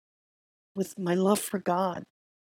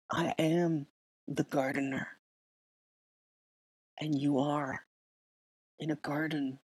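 quieter, lower and tender, like God speaking close; a hushed, reassuring inner voice, a touch lower; soft voice of God; 3 semitones lower, 4 dB quieter than usual. Retold or imitated. God gently comforting a frightened listener, soft and low. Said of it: "the voice that says".

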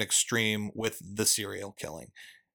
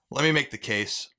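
defensive; 2 semitones higher than usual. Real, not acted. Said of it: "That sounded so defensive".

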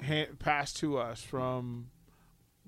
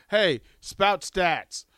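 put-on demanding old-timer; 5 semitones higher, 8 dB louder, much slower than usual. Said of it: "just go".

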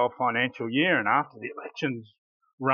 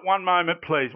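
catchphrase, sing-song; 4 semitones higher than usual. Shown as a demonstration. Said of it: "I love this".

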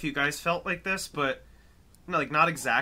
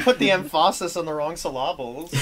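laughing; 2 semitones lower than usual. Real, not acted. Teasing friend about his accent.

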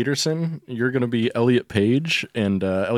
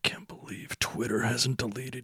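exasperated; 5 dB quieter than usual. Acted. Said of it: "Just exasperated".

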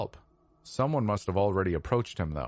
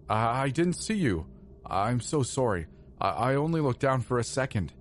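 higher-pitched pleading stewardess, stumbling on "I, I"; 5 semitones higher than usual. A narrator's reading. Stewardess explains herself to the passenger she hit, pleading. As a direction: plead your excuse, pitched up and hesitant. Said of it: "she pleaded".

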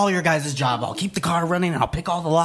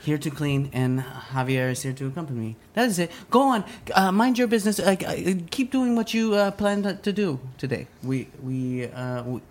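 nervous maid voice. Acted.

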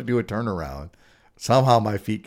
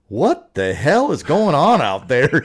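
vocal coach's yell; 5 semitones higher, 6 dB louder, slower than usual. Retold or imitated. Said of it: "He was always pretty vocal, and he goes".

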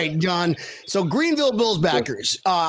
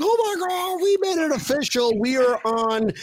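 imitating thrilled fans; 2 semitones higher than usual. Imagined fans seeing the commercial.

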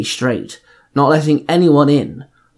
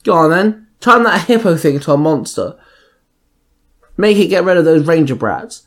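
grunting; 3 semitones higher than usual. Acted. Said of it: "Nephis grunted".

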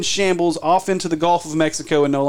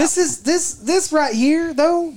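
emphatic; 11 semitones higher, much slower than usual. Real, not acted. Stressing seriousness of scandal.

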